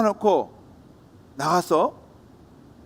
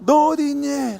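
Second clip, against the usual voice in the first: calling out; 7 semitones higher, 3 dB louder than usual. Acted. Mother searching, calling out.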